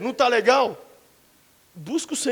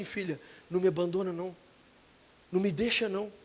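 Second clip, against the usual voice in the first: much softer, low begging; soft pleading; 4 semitones lower, 9 dB quieter, faster than usual. Retold or imitated. Husband under the rain begging his wife, soft plea. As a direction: plead quietly not to be left.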